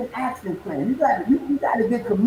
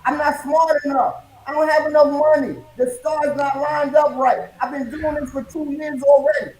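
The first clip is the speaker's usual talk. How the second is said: mock quitter excuses. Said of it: "You say".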